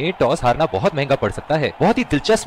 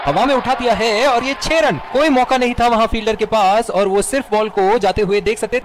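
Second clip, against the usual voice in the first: excited; 4 semitones higher than usual. Acted. Six hit, commentator calls it.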